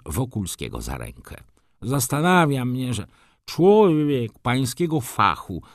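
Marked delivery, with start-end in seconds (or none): 1.8-5.6 high, struggling voice of the wounded baron; laboured speech. A narrator's reading. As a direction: labour through the words, raised in pitch. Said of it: "mówił z trudnością baron". (wysoki głos, mówienie z trudem)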